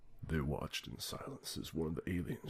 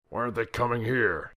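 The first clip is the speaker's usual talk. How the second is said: loud, high indignant outburst; the president fuming at his cabinet; angry president; 7 semitones higher, 12 dB louder than usual. A narrator's reading. President complaining to cabinet, loud and indignant.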